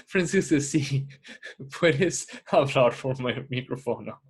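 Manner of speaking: Spanish with an American accent; careful learner's Spanish, American accent. Real, not acted. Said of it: "Perdón, mi español".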